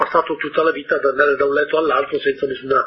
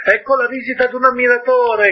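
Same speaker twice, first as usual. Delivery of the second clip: higher, pleased calling voice; vain man calling out; 8 semitones higher than usual. A narrator's reading. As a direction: announce the admirer proudly from afar. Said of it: "gridò da lontano il vanitoso".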